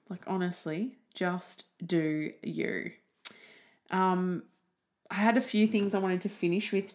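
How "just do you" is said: "just do you" drawn out slowly, each word leaned on; slow it right down and land it; slow emphatic. Shown as a demonstration. Urging listeners to be themselves, slow and emphatic.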